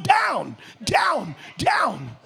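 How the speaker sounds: rising-volume repetition; emphatic repetition. Acted. Ladder keeps going down.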